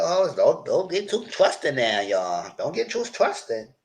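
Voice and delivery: warning. Real, not acted. Warning the cast on screen.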